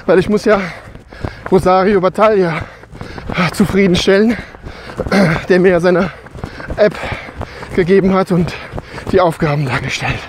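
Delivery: while running. Real, not acted. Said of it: "Ich laufe jetzt mal weiter".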